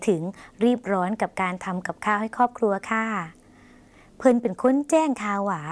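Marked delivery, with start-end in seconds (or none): 3.6-5.6 very slow, clear model sentence เพิ่นเป็นคนแจ้งข่าวหวา; slow Lao demo. Shown as a demonstration. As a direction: drag it out for learners to copy. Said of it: "ลองออกเสียงภาษาลาว". (อ่านช้ามากให้ผู้ชมพูดตาม)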